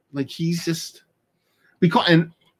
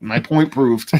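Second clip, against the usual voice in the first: triumphant; slower than usual. Real, not acted. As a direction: bark it like you've won. Triumphant after friend's answer.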